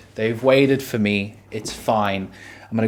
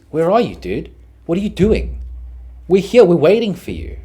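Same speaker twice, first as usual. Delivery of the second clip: imitating annoyed friends; 6 semitones higher, 4 dB louder than usual. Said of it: "their first reaction is".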